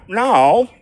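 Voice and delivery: high, loud cry of no; retold shout. Shouting to Linda as she runs off, high alarmed no. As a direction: call Linda back in alarm. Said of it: "I went".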